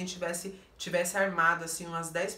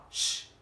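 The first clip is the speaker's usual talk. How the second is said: dismissive hush; sharp shush. Retold or imitated. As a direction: shut her up with a hiss of air. Shushes the girl again.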